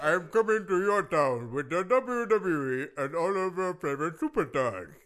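hyped event ad read; radio drop. Acted. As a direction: announce the show like radio. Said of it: "are you doing radio drops".

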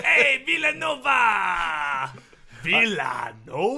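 loud, slow put-on accent call; Hispanic accent. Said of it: "the accent you're going for".

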